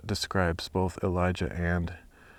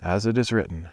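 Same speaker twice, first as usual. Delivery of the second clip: steady, earnest Bible reading; scripture reading. Acted. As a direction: read the passage aloud with care. Reads scripture aloud.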